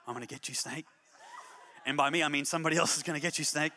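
half-joking muttered threat at the window; mock threat. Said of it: "I would stand at the window".

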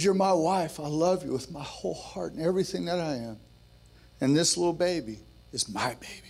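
tender, understated imitation of a tearful husband; tearful retelling. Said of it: "looked at her through tears".

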